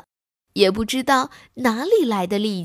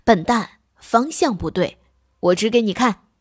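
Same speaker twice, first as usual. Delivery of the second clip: impatient. Acted. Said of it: "着急地说".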